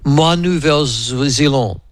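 slow, careful schoolboy French; halting beginner's French in a New Zealand accent. Retold or imitated. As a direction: try out basic schoolboy French. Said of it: "with my schoolboy French going".

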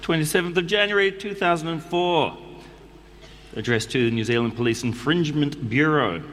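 put-on reading a letter in a New Zealand accent; a relaxed Kiwi accent all through. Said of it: "I'm going to do it in the New Zealand accent".

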